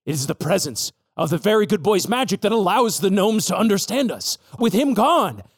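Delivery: put-on old sheepdog elder rising into high lament; grim old sheepdog.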